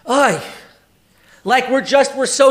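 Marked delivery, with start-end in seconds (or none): 0.1-0.4 demo sigh. Shown as a demonstration. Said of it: "we're just like".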